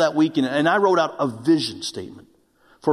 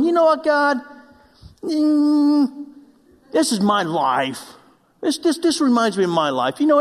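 pouting complaint; 2 semitones higher than usual. Retold or imitated. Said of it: "I'm just launching off my pout".

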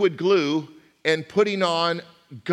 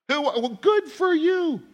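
sarcastic; 13 semitones higher, slower than usual. Retold or imitated. Mocking a boastful answer.

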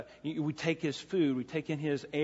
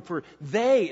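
"they" punched louder; stress on they; 3 semitones higher, 7 dB louder than usual. Shown as a demonstration. Preacher reading who will be comforted, loud stress on "they". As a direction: hit the word "they" hard. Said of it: "it's an emphatic they".

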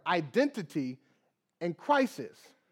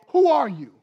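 "Who are you?" hard and loud, higher; emphatic call; 6 semitones higher, 9 dB louder than usual. Real, not acted. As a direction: challenge the congregation with a louder question. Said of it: "Think about it".

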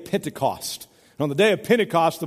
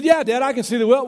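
higher, louder mock shout to Dad; imitated calling out; 6 semitones higher, 5 dB louder than usual. Farmer's son answers his father's question from afar, imitated calling. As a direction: play a boy answering from across the yard.

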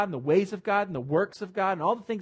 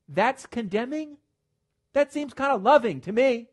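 incredulous rebuttal; 8 semitones higher, 6 dB louder than usual. Acted. Rebutting the professor from the pulpit.

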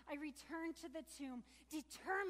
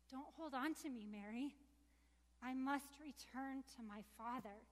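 calm risen Jesus. Acted. Jesus instructs Mary calmly.

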